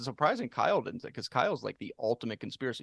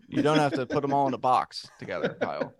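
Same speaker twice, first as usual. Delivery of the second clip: teasing; 3 semitones higher, 7 dB louder than usual. Real, not acted. Teasing cohost loudly.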